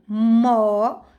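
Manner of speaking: mó held long on its own; teacher isolating a drawn-out mó; isolated stressed syllable. Shown as a demonstration. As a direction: stretch out the syllable mó. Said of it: "está na penúltima sílaba".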